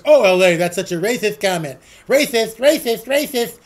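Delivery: lisping mock whine. Host mocks critics calling him racist, lisping sneer. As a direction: sneer it like a whiny scold. Mocking the left's accusations.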